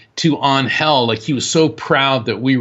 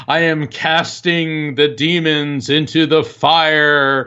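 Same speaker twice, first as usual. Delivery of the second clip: slow solemn pronouncement; 2 semitones higher, slower than usual. Retold or imitated. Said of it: "he's explaining".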